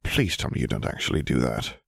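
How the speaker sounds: a touch of a shudder; Harry begging her to deny it, mildly disgusted. Acted. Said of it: "Harry shuddered".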